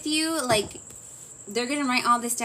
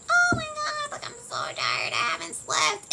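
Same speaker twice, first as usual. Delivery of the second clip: tired complaint. Retold or imitated. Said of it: "have you ever been, like, dying inside?".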